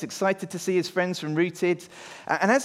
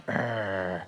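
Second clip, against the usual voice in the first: mock angry growl; 11 semitones lower, 7 dB quieter than usual. Shown as a demonstration. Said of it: "angry face".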